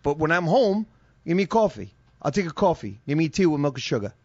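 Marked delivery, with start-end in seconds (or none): 1.3-4.1 light New York accent on "coffee", ordering at a deli; hint of a Brooklyn deli order. Shown as a demonstration. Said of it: "That's how I fucking talk".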